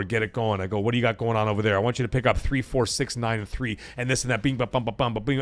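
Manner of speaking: soft, even rattle of kitchen orders; calm in command. Retold or imitated. Executive chef to staff amid chaos, calm in command. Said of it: "I'm, like, in this Zen mode".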